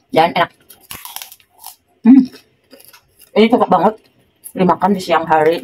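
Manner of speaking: talking while biting cracker; speaking around a cracker; cracker at the lips. Real, not acted. Seen 0: No chewing visible; cracker raised to lips from 3.0 while talking.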